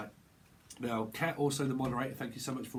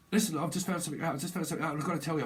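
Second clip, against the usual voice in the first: mock urgency; 4 semitones higher, much faster than usual. Acting the urgent messenger.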